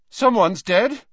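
put-on panicked boy's voice shooting up; voice jumps up. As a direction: blurt it high and strained. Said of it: "voice seemed to go up an octave".

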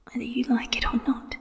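soft possessive whisper at his ear. A narrator's reading. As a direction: breathe the promise right into his ear. Wen Kexing always whispered.

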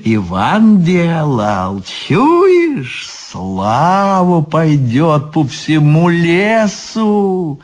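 lightly voiced Baba Yaga, drawn-out boasting; coaxing Baba Yaga. Baba Yaga tempts Ivan with forest-wide fame, coaxing. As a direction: dangle the glory slowly, stretching key words. Баба Яга уговаривает Ивана.

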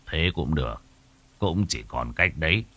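quiet, resigned husband; sad resignation. Acted. Husband sadly agrees to see the medium, quiet and resigned. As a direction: give in with a heavy heart. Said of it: "Ông Hải buồn bã gật đầu".

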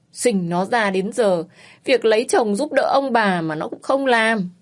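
loud, hammed-up wailing complaint; wailing lament. Mother lamenting her daughter won't marry, loud mock wail. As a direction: cry out to heaven about an ungrateful daughter. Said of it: "rồi khóc lóc kêu than".

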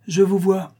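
high-pitched burst of indignation; furious outcry. A narrator's reading. Countess rising against the baron who betrays her, furious. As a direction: turn on him, suddenly incensed. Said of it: "changea son attendrissement en fureur".

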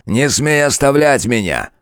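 громко, высоко, медленно; выкрикнуть в бешенстве; ярость. A narrator's reading. Король кричит вслед. (король кричит на демоницу)

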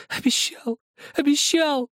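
put-on the boy wails it again and again; sobbing shout. A narrator's reading. Boy keeps screaming.

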